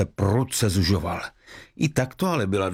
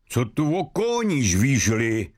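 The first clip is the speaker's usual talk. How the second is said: snapping at him. Acted. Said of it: "Obořil se na mladíka".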